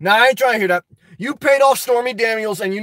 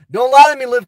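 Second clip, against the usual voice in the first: "lie" hit louder, repeated more forcefully; louder warning; 6 dB louder than usual. Acted. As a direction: lean in harder on "lie".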